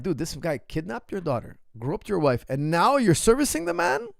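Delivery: incredulous outburst. Retold or imitated. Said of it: "I'm like".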